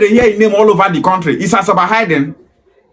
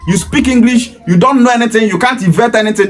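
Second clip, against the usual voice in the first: mocking child; 5 semitones higher than usual. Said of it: "Instead of telling them".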